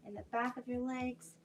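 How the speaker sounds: soft, hushed instructor voice; soft spa whisper. Real, not acted. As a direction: keep it hushed near the mic. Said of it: "I'm trying not to scream now that my head is right into the microphone".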